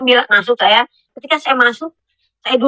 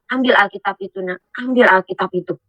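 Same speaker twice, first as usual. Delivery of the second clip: mysterious voice; 3 semitones lower than usual. Retold or imitated. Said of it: "ada satu suara".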